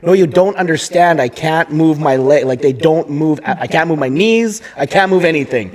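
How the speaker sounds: insistent, mildly frantic retelling; retold freak-out. Patient arguing with the calming nurse, mildly frantic. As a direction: plead to be understood, mock panicked. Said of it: "I start freaking out".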